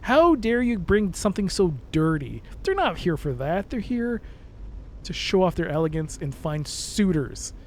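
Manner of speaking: clutch your pearls and scold, slowly; prim Regency lady. Pretend. Streamer scolds chat as an outraged Regency lady. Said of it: "I can talk like this for hours".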